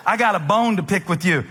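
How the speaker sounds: low, brisk imitation of a Southern lady; retold low-country Southern accent; deep Southern accent. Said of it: "She had a deep Southern accent".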